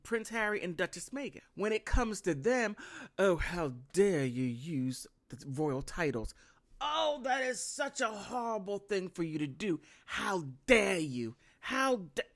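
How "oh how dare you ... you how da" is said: mock-outraged British accent, lightly done; bad British accent. Vlogger mocking William in a bad British accent. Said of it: "I have to work on my British accent".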